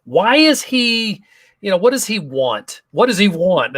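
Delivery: mildly suspicious, replaying private doubts. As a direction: question it warily, stretching "why is he". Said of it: "I was a little suspicious".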